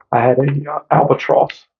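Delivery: talking through a burning mouth; struggling to talk after hot pepper. Real, not acted. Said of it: "God, I can't even talk".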